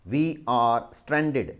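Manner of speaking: We are stranded said very slowly, each word apart; slow dictation. Shown as a demonstration. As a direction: repeat it slowly for writing. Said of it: "S T R A N D E D".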